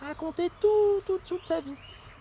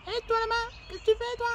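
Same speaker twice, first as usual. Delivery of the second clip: small voice pitched higher; little voice; 6 semitones higher than usual. Acted. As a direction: call out in a tiny higher voice. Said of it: "elle entend une petite voix".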